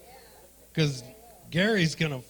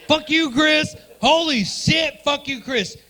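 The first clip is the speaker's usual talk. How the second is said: heckler voice; 8 semitones higher, 6 dB louder, slower than usual. Retold or imitated. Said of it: "audience member voiced".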